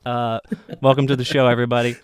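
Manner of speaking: high, loud goofy greeting, breaking into a laugh; Justin Long impression. Host welcoming listeners at the end of his celebrity impression. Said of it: "that was my best Justin Long impression".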